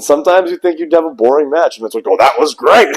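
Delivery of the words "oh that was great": a hint of Vince McMahon; lightly imitating Vince, pleased; Vince impression. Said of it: "phenomenal Vince impression".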